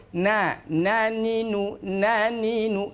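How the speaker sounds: drawn-out naninu, held breath; slow "naninu" with no air. Shown as a demonstration. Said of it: "Tidak boleh mengeluarkan udara".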